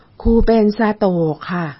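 slow, slurred stroke-patient voice; slurred drawn-out speech. Retold or imitated. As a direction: stretch and slur every word. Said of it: "แล้วก็เสียงยืดๆแบบเนี้ย".

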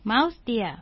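ordinary talk, nothing marked

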